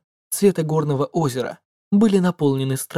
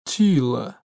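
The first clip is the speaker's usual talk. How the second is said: low gentle voice; 4 semitones lower than usual. Acted. Narrator repeats her name.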